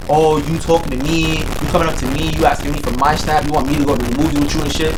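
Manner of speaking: mocking her. Mocking her mixed signals.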